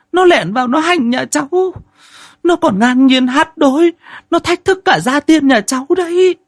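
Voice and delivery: very high, shrill-pitched breathless telling; wife telling the old woman about the headless ghost; frightened young wife. Acted. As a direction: blurt out the ghost story, scared.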